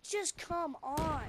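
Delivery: slow, exasperated imitation of a nagging kid; imitated insistence. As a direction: drag it out insistently. Kid pleads, pulling his sleeve.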